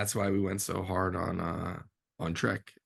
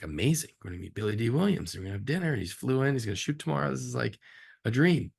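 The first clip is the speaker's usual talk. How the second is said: retold excitement; 4 semitones higher, faster than usual. Director retelling his thrill at the dinner invite, building excitement. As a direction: gush like a kid about meeting a hero.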